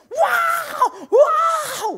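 high, loud yelping "wow, wow"; a hammed-up scream of shock; mock furious outburst. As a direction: act out the wife blowing up, shouting and half laughing. Wife explodes on hearing confession.

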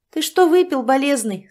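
loud high jeering call; mock-pitying yell; mocking shout. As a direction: jeer at him loudly. Mocking the agitated old man.

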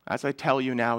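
understated grief, softly voiced; hushed, mildly sorrowful imitation; retold sobbing. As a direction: quote it softly, as if close to tears. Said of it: "he starts sobbing".

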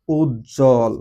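উজ্জ্বল said deliberately as "uj-jol", no b; silent-ব pronunciation. Shown as a demonstration. Teacher giving the third rule's example, উজ্জ্বল as "uj-jol". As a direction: lengthen the doubled j in উজ্জ্বল and leave out ব. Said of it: "ব ফলার উচ্চারণ".

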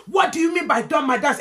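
mock auntie baffled and affronted; bewildered auntie. Auntie asking about the girl's slang threat, high indignant voice.

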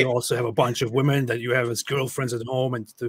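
lightly put-on tough guy; a hint of a mock tough man; fake tough-man voice. Host mocks manly influencers in a lightly faked voice. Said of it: "when you talk like this with a fake voice".

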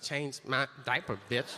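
lightly imitated rapper; a hint of rap-video swagger. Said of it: "Rappers should wear them in videos and be like".

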